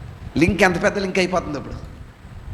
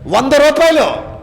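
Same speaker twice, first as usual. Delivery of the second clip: higher and slower, రూపాయలు stretched with a firm fall; emphatic repeat; 5 semitones higher, slower than usual. Shown as a demonstration. Preacher stresses how the elders inflated the quarrel, emphatic. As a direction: spell out రూపాయలు like a verdict. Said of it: "ఈ పెద్దలు ఏం చేశారు?".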